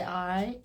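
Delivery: "I" said the Southern way; Southern pronunciation. Shown as a demonstration. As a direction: give "I" a Southern twang. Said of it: "A lot of us Southerners all say".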